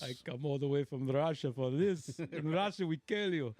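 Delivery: lightly imitated Russian accent; mock-menacing complaint with a hint of Russian. Russian trainer grumbling about his gassy trainee, mock Russian accent. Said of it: "a Russian guy with a Russian accent".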